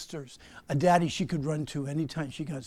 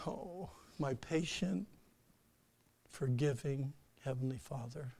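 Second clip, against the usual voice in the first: weary prayer; 3 semitones lower, 8 dB quieter than usual. Shown as a demonstration. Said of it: "other times it's".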